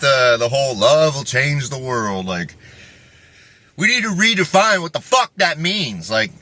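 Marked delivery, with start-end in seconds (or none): 3.8-6.1 higher and punchy, driving the point home; emphatic. Acted. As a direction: hammer the line out. Repeats the line differently.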